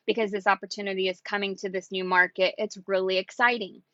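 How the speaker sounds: chill and casual. Shown as a demonstration. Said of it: "just be chill and be like".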